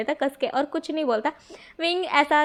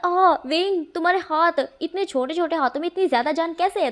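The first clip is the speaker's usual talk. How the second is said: ouch from pinch; 4 semitones higher than usual. Acted. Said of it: "नाक को खींच लेता".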